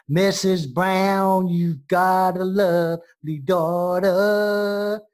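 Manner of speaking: drawn-out American take on a song line; American accent. Shown as a demonstration. Host showing British guest an American version, American accent. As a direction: stretch it out slowly in an American accent. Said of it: "with that American accent".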